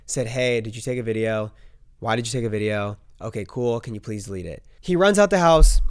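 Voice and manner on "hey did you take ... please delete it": quiet, calm, reasonable asking. Retold or imitated. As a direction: show the calm way to ask. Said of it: "You could have been calm about it".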